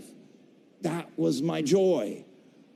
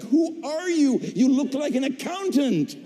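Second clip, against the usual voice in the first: higher, incredulous asking with a laugh; mock-puzzled casting director; 8 semitones higher than usual. Casting director teasing the actor after his orc voice, amused. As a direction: tease him like a casting director. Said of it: "And she's like".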